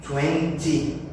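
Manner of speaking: Twenty said with a full mouth and a crisp T; British twenty. Shown as a demonstration. Teacher imitating a Londoner, full mouth and crisp T. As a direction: round out Twenty, T fully sounded. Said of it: "Eles vão falar com a boca mais cheia".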